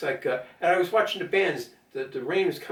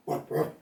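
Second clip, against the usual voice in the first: dog barks. Shown as a demonstration. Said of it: "F A N means funny animal noises".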